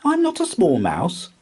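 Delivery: high, loud, insistent squeak; insistent mouse. A narrator's reading. Small mouse insists to Squirrel, high and loud. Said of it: "insisted Milly".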